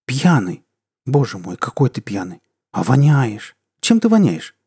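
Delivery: scolding wife, shocked and scared; indignant and frightened. Acted. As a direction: fuss at him, outraged and scared. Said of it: "Возмущённо и испуганно восклицала супруга".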